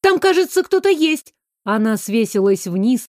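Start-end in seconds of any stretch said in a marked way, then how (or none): 0.0-1.3 high, eager discovery; excited. A narrator's reading. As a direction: point it out, thrilled and startled. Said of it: "воскликнула Майра".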